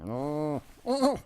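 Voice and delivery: put-on bleating baby cow-goat sound; goat impression. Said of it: "Like a baby cow or something".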